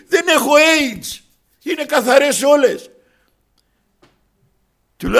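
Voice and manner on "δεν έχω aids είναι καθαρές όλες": high-pitched, drawn-out good news; acting out a man's excited relief; retold elated announcement. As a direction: announce the clear results in a raised, excited voice. Retells brother's joy at clear results.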